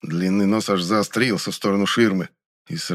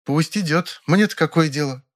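higher, indignant grande dame voice; 7 semitones higher than usual. A narrator's reading. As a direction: bristle with offended pride. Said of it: "возмутилась Фаина Георгиевна". (возмущённо, повысив голос)

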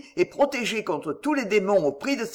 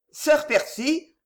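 hesitant, higher, slow; hésitant; 7 semitones higher, slower than usual. A narrator's reading. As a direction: venture the name tentatively. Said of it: "hasarda-t-elle sans réfléchir". (appel hésitant, plus aigu et lent)

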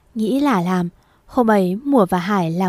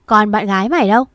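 a touch louder, demanding; loud demanding mother; 5 dB louder, faster than usual. Acted. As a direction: snap the question at her son. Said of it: "cái giọng chua ngoa của bà". (mẹ Hải hỏi con trai, giọng to gắt)

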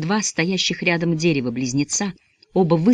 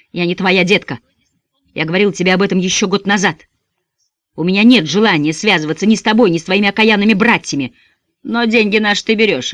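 loud, defiant and proud; heated retort; 4 semitones higher, 5 dB louder than usual. Acted. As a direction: throw it back at him. Lenny's heated retort to Donny.

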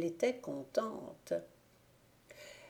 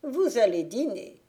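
witch pressing; 4 semitones higher, 5 dB louder than usual. A narrator's reading. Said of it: "lui dit-elle".

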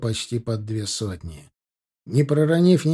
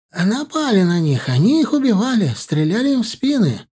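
high, loud and breathless; agitated blurting; 8 semitones higher, 5 dB louder than usual. Acted. Old shepherd telling the warriors of the attack, agitated and high. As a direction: spill it out in a frightened rush.

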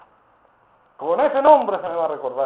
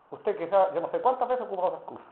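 ordinary talk

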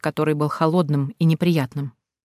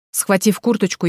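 ordinary delivery, nothing marked

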